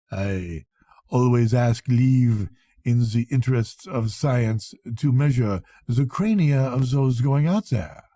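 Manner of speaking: lightly voiced foreign doctor, slow and distracted; a hint of an eccentric French doctor musing; odd old doctor. An old doctor muses to the departing Englishman, lightly accented.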